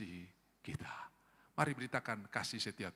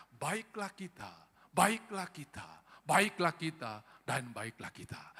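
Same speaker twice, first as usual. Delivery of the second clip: Babel builders; 2 semitones higher, slower than usual. Retold or imitated. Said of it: "mereka berkata".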